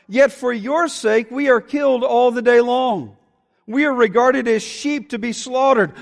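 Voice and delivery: fervent psalm read with rising urgency; passionate scripture reading. Acted. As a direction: read it as a pleading prayer. Reads psalm aloud.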